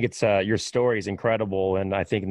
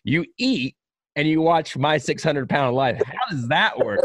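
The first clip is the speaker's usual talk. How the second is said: incredulous; 3 semitones higher than usual. Retold or imitated. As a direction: stop him in disbelief. Retelling his disbelief to Trace Atkins.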